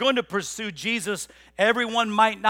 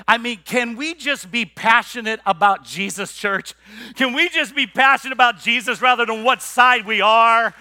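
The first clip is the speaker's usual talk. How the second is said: louder, higher, pleading with the church; passionate preaching; 3 semitones higher, 6 dB louder than usual. Real, not acted. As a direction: preach it, building the plea. Pastor pleading with the congregation.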